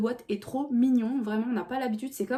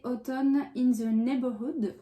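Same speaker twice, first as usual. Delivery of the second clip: slow, careful English accent on the title; slower than usual. Shown as a demonstration. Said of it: "On adore mon accent anglais". (accent anglais appuyé, lent)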